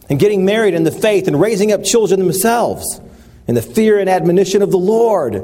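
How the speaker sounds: enthusiastic preaching. Retold or imitated. Pastor talking on, unaware of his friend's grief, enthusiastic. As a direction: keep gushing about God's work. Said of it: "I said".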